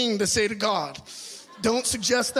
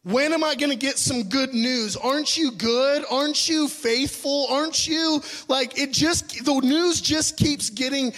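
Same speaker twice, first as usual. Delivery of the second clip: mock temper tantrum; 3 semitones higher than usual. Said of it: "I was having a mild temper tantrum".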